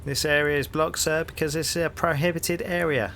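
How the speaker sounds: hearty London copper, rising into the question; cheery Cockney policeman greeting a stranger; cockney bobby. Acted. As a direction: play the nosy beat cop on his rounds. Policeman lectures.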